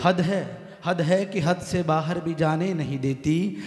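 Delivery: slow, measured couplet recitation; poem recitation. Acted. Poet reciting his couplet to the audience, slow and measured. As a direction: savour each line for the audience.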